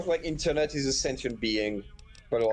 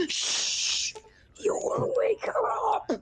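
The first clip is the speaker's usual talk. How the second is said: hushed whisper; much slower than usual. Retold or imitated. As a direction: whisper as if someone sleeps nearby. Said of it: "she would say".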